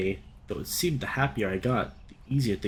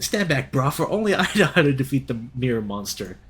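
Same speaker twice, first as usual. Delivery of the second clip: heroic role; 2 semitones higher, 4 dB louder than usual. Acted. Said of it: "taking on the heroic role".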